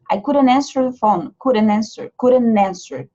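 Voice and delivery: couldn't said without the t, couldn't answer run together; American couldn't with silent t; dropped t. Shown as a demonstration. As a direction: swallow the t in couldn't. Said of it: "O T some".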